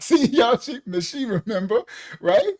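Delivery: loud laughing call-out; laughing shout. Real, not acted. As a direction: shout to the crowd through a laugh.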